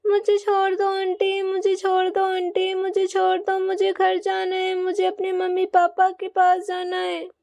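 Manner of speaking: a hint of a sobbing boy calling for his parents; crying child. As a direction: beg to be let go, near tears. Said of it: "Rohan जोर-जोर से रोने लगता है".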